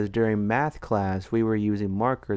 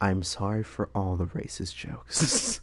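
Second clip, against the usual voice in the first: mock apology; 3 semitones lower, 6 dB quieter than usual. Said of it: "make an apology video".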